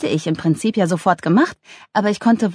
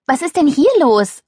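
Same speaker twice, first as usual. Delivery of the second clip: higher-pitched puzzlement; baffled, raised-pitch query; irritated question; 9 semitones higher, 4 dB louder than usual. A narrator's reading. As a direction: ask what's up, thrown and puzzled. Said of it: "fragte Luna irritiert".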